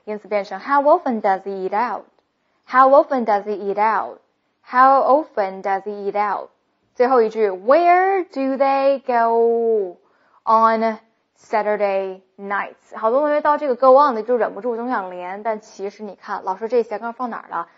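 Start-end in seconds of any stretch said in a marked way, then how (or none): 0.6-6.5 "does he" as "duh-zee", running into "eat out"; slow model of "How often does he eat out", words joined; fully linked. Shown as a demonstration. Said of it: "这个还会连读". 7.5-13.0 slow "Where do they go", break, then "on Saturday nights"; pause between groups. Shown as a demonstration. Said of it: "中间稍微停顿一下".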